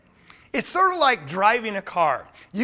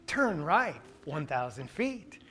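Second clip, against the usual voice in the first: soft, slow robotic direction reading; non-human GPS voice; 5 semitones lower, 7 dB quieter, slower than usual. Retold or imitated. Preacher mimicking GPS directions in a slow non-human voice. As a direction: sound like a machine reading the route. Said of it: "in this non-human voice".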